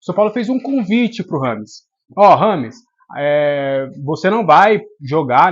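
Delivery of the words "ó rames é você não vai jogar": louder, firm callout to the player; loud warning quote. Retold or imitated. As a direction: call him out sharply by name. Club voiced telling Rames. (aviso firme e em voz alta)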